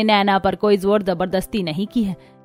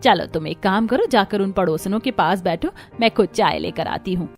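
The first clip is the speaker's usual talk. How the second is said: lovingly; 3 semitones lower than usual. Acted. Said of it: "सरला बड़े प्यार से".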